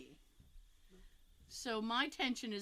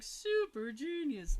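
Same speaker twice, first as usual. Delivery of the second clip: "Super genius" drawn out slowly, a touch louder; imitating Wile E. Coyote; 4 semitones higher, 4 dB louder, slower than usual. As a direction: savor "Super genius" like a smug cartoon coyote. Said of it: "the way he says it is hilarious".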